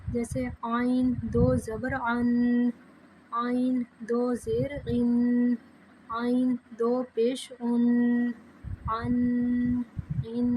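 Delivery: slow chant with آئین squeezed from the throat; throaty ain. Shown as a demonstration. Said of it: "آئین کو حلق سے آواز نکال کے". (آئین کی آواز حلق سے نکالنا)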